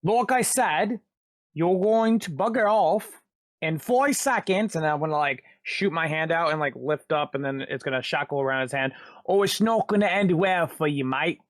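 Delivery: put-on lightly done British accent, cocky threat; British character. Xander threatening the thug, mild British accent.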